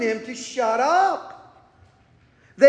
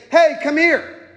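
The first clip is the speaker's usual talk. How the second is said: calling over; 3 semitones higher, 4 dB louder than usual. Retold or imitated. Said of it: "close enough where Jesus can say".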